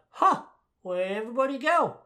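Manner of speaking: high, loud mock bewilderment; puzzled villain. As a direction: call out cluelessly to an empty room. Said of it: "and he's like".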